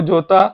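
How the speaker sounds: जोता said as hota; letter J in Spanish, जोता. Shown as a demonstration. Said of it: "ये को".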